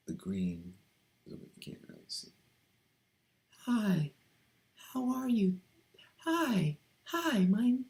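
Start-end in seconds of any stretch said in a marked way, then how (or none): 3.7-7.8 very high feminine greetings. Shown as a demonstration. Using a trigger phrase to slip in, high feminine voice. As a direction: find the feminine register, well above your own. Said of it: "slip into their feminine voice".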